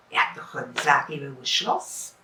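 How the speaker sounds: a hint of a greedy wife; scheming wife. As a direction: plot it under her breath.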